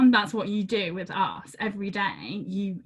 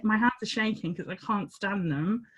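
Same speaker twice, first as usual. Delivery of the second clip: ordinary talk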